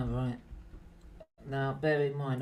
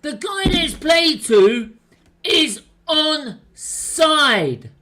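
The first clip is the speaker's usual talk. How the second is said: angry; 5 semitones higher, slower than usual. Real, not acted. Arguing the call.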